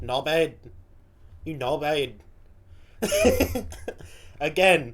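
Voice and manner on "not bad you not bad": careful imitation Mancunian; Manchester accent attempt. Viewer copying the comedian, in an attempted Manchester accent. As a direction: have a go at Manchester vowels. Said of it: "let's try this".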